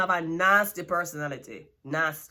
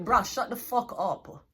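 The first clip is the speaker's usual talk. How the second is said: exasperated; slower than usual. Real, not acted. Annoyed dismissal.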